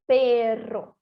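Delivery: "perro" with a strong trill; summary demo of "perro"; rolled RR. Shown as a demonstration. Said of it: "muito mais forte".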